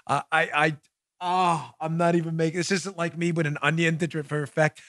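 talking through leftover laughter; laughing to tears. Real, not acted. Host laughing to tears at the news, still chuckling. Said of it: "I'm seriously crying".

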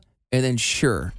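"stu" as "stuh", then "sure" as "sher", separated; syllable by syllable. Shown as a demonstration. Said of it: "they have it in three different".

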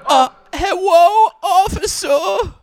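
put-on slow, high innocent baby voice. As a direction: play a helpless little baby. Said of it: "I'm just a baby".

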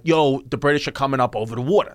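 put-on quick colonial New Yorker, New York accent. Imagining Revolutionary War colonists talking, fast New York accent. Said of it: "sounded like what New York and Boston".

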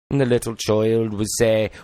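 Welsh accent. Shown as a demonstration. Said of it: "Welsh dialect".

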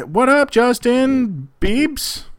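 high, drawn-out fangirl squeal; starstruck fan. Pretend. Starstruck greeting of Justin Bieber.

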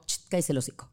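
curt rude hush; rude son's hush. Retold or imitated. Son rudely shushing his mother, curt hush. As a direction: shut mom up rudely. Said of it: "dice mi hijo muy grosera".

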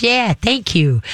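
calm, lilting praise. Shown as a demonstration. Trainer models praise for the caller, very calm. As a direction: gently praise without exciting. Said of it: "keep your voice very calm".

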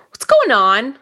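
breathy confused whisper. Acted. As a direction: whisper it, bewildered.

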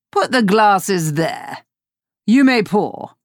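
slow, lordly orders; a hint of a haughty captain; pirate captain instructing. Hook directing his servant, lightly voiced haughty orders. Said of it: "Hook instructed".

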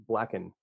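"blacken" run together as one word, the "and" unheard; Boston-style "blacken", with no d and no separate "and"; swallowed "and". Shown as a demonstration. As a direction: let "black and" flow into "blacken". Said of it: "You can't hear the and".

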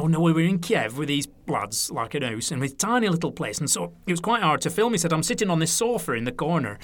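light Lancashire voice, brushing it off; a touch of northern Lancashire, casual and unbothered; Lancashire accent. Retold or imitated. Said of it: "So it's my Lancashire accent there".

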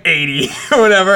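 ordinary talk

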